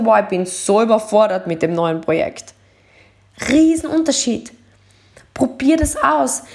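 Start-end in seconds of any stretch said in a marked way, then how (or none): 0.0-2.5 low, heavy and weary; sagging overwhelmed take; overwhelmed version. Shown as a demonstration. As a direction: sigh it out, worn down. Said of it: "anstatt zu sagen".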